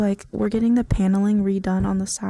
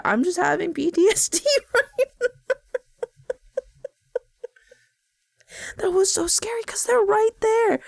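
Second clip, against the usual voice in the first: nervous laughing; 10 semitones higher than usual. Real, not acted. Laughing off the scare.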